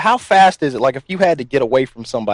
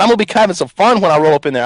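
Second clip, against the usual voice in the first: repeating it louder and higher for a listener who missed it; 5 semitones higher than usual. Real, not acted. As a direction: say it again, pushed up and out so he hears. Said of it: "Say what?".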